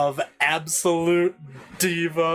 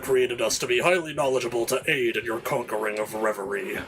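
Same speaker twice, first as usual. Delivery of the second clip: dutiful minion; 3 semitones lower than usual. Acted.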